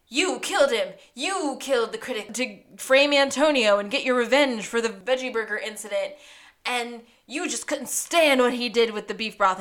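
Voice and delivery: acted accusatory tirade, hammering YOU; mock scolding with emphatic accusations; berating. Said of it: "he starts berating Veggie Girl".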